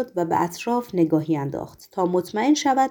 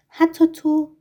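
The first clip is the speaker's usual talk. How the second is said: high, surprised question; 8 semitones higher, 4 dB louder, slower than usual. A narrator's reading. Governor amazed even his agent doesn't know: surprised. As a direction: pitch jumps up in astonishment. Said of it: "با تعجب".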